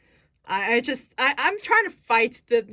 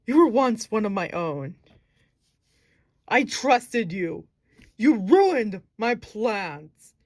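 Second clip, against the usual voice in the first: vengeful villain captain; slower than usual. Acted. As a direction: spit out the betrayal slowly. Villain blames Evelyn, vows revenge.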